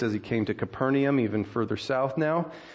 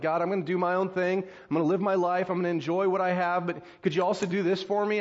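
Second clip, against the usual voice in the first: casual self-serving prayer; 5 semitones higher than usual. Acted. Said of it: "how many of us just want something from God".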